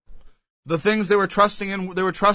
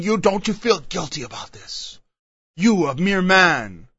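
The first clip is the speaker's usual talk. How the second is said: accusing the crowd. Retold or imitated. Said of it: "as a man they thought".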